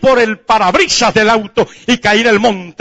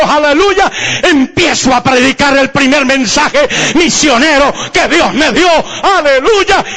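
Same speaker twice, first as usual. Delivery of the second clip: raised, high, ringing sermon voice; fiery preaching; 4 semitones higher than usual. Acted. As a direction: preach it out to the crowd with full conviction.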